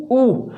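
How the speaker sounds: ऊ voiced long with rounded lips; vowel demo. Shown as a demonstration. Teacher asks students to try it, rounded ऊ demo. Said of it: "आप उच्चारण करके देखिए ऊ".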